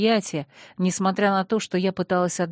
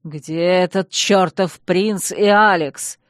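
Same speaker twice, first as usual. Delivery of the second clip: slow angry growl, louder; 5 dB louder, slower than usual. Acted. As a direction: growl it at the butler. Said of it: "зарычал герцог".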